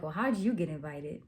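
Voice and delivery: mildly snotty mock question; snooty. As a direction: put on a touch of snootiness. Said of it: "Real snooty, real snotty".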